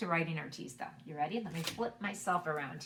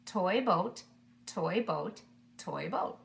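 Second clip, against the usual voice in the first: slowly together; slower than usual. Shown as a demonstration. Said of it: "Let's do it slowly together".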